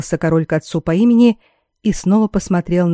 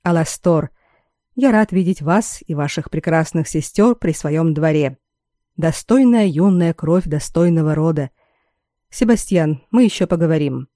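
хрипловатый голос короля. Acted. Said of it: "чуть хрипловатый голос короля".

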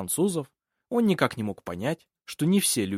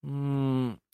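soft, doubtful "mm"; doubtful hum; 3 dB quieter than usual. A narrator's reading. Nephew unconvinced by his uncle's plan, doubtful hum. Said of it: "с сомнением произнёс Ив".

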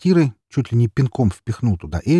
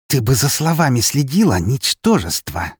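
hissed threat; 6 semitones higher than usual. A narrator's reading. Эри warns the neighbour woman, menacing and contemptuous. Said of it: "прошипела она".

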